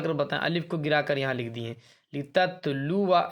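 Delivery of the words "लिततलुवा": drawn-out recitation, alif left silent; slow tajweed recitation; Quranic recitation. Shown as a demonstration. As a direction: recite it slowly with the alif unspoken. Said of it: "जो अलिफ है ये silent है".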